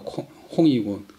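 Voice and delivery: 홍 said as "hong", the Cantonese reading; Cantonese-style 홍 with a rounded "o"; Cantonese pronunciation. Shown as a demonstration. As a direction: give 홍 its Cantonese sound, "hong". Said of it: "강동 발음으로 향자가".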